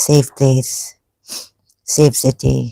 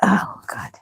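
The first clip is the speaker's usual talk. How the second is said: whispered; 5 semitones higher, 9 dB quieter than usual. Real, not acted. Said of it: "I have to blow my nose".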